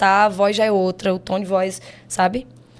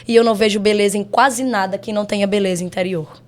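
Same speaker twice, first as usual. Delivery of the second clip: poem recitation. Shown as a demonstration. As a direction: declaim each line like a stage poet. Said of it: "essa questão do recitar e o tom de voz mudar".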